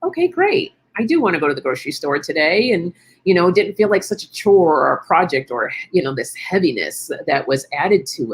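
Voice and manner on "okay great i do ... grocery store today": cheerful relief. Retold or imitated. Host voicing her lighter self about the grocery store, upbeat and quick. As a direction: perk right up as if the chore is suddenly fun. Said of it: "And then I felt more of like".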